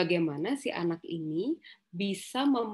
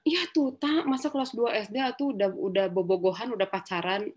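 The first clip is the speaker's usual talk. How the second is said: worried friend; 3 semitones higher than usual. Retold or imitated. Friend's worried complaint retold.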